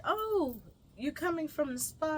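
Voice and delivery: high, interested question; retold high-pitched "oh" of interest; pleasantly surprised. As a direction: imitate a chatty stranger perking up.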